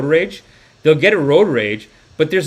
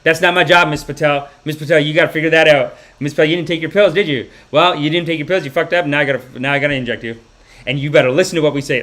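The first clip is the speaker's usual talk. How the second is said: mildly scolding nurse voice; stern nurse, imagined. Retold or imitated. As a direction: tell off a patient, a touch forceful. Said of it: "Like, nothing, nothing. Just such loving".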